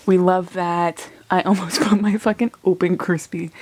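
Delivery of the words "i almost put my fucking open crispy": half-laughing whisper; whispered confession mid-laugh. Real, not acted. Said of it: "I'm sorry I'm whispering".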